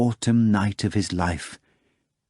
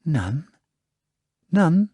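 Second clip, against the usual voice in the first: soothing mutter; 8 semitones higher than usual. Acted. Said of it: "he muttered soothingly".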